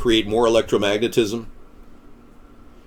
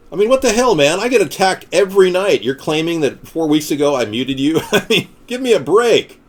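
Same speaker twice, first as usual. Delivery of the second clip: higher, louder indignation; exasperated protest; 5 semitones higher, 3 dB louder than usual. Acted. Host answering a muting accusation, exasperated. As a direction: push back, fed up.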